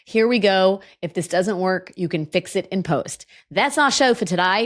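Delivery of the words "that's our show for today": deliberately bad put-on Australian accent. Closing out the show, spoken in my worst Australian accent. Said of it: "now I'm going to close out the show in my worst Australian accent".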